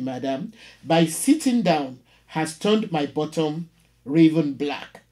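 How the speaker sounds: measured, dramatic poetry reading; poem reading. Acted. Teacher reading a poem to the class, dramatic recital. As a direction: read it like a performed poem, every image weighed. Reads poem Telephone Conversation aloud.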